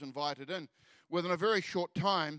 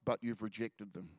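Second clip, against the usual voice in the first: hushed, gentle rebuke; gentle voice of the Spirit; 5 semitones lower than usual. Retold or imitated. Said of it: "the Holy Spirit so very gently said to me".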